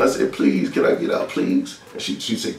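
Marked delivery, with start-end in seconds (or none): 0.3-1.8 put-on voiceless pleading of a frightened child; retold shaking plea. Shaking child begging to leave the tub, retold breath-only plea. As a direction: beg with hardly any voice, as if shaking. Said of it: "I remember I was shaking".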